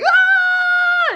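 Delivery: very high mock scream; high-pitched retold shriek; imitated yell. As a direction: mimic a room full of yelling kids. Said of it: "everyone's yelling".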